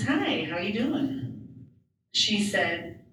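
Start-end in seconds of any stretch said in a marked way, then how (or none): 0.0-1.7 higher, slow friendly hello; cheery nurse greeting. Retold or imitated. Therapist greeting, voiced higher.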